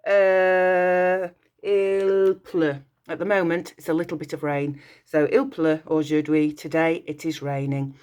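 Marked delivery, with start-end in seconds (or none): 1.6-2.8 "il pleut" said as French /il plø/, stress on "il"; French demo. Shown as a demonstration. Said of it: "So I would say today". 5.3-6.5 "Il pleut aujourd'hui" said in French, /il plø oʒuʁdɥi/; French demo. Shown as a demonstration. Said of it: "So I would say today".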